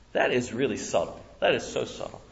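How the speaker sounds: usual speaking voice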